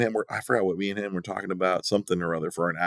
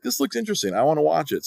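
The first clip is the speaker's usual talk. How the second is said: mocking wife voice; 7 semitones higher, faster than usual. Wife quoted, mocking her.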